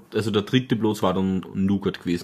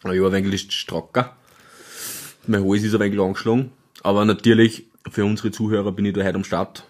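stuffed-up voice with sore throat; snotty sore throat. Real, not acted. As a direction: talk through a head cold. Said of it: "Komplett verrotzt".

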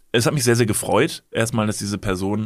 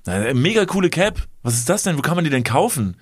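quoting the stranger; 4 semitones higher than usual. Retold or imitated.

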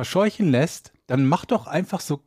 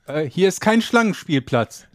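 passive-aggressive; 4 semitones higher, slower than usual. Pretend. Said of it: "Oder so passiv-aggressiv".

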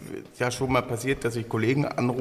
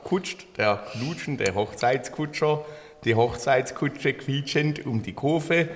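put-on tongue twister in a light Swabian accent, slow; own Swabian accent. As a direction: recite it slowly with a touch of Swabian. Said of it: "weil ich's in meinem Akzent gesprochen habe". (Zungenbrecher langsam mit leichtem schwäbischem Akzent)

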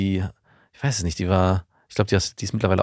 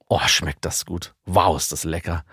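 mock foodie gushing; 4 semitones lower than usual. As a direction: ham up savoring every bite. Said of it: "Beim Essen sagen". (übertrieben genießerisch)

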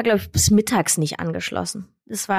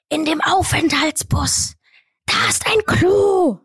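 higher, slow quoted driver; lightly voiced driver, higher and slower; 7 semitones higher, slower than usual. Driver Matti quoted in story.

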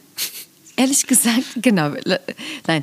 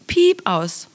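quack censor; 3 semitones higher than usual. Pretend. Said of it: "was ist zensiert worden?".

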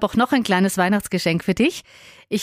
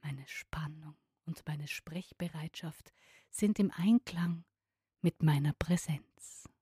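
whispering; 3 semitones lower, 15 dB quieter than usual. Shown as a demonstration.

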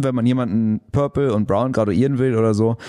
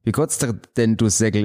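quicker Swabian retry. Shown as a demonstration. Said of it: "Ist es nicht korrekt?".

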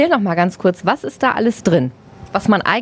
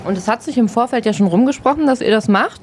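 talking while chewing; mouth full; 2 semitones higher, faster than usual. Real, not acted. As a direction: speak around a mouthful of food. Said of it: "Ich rede mit vollem Mund".

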